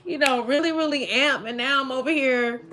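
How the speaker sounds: high, loud and teary, half-laughing; teary worked-up rant. Real, not acted. To Spirit, mid card reading, loud and teary with a half-laugh. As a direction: let the tears and the laughter spill out together. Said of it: "boo-hoo crying".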